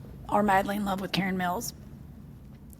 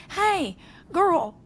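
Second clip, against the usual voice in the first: put-on high, sing-song Hey, girl; hey girl greeting; 9 semitones higher, 4 dB louder than usual. Amused friend quoting an old lady's text, high and chirpy. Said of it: "text me and was like".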